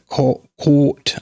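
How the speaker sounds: "court" as British "caught", rounded AW; tentative try at a British rounded "court"; very rounded vowel in "court"; attempted British caught. Shown as a demonstration. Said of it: "I can't do it".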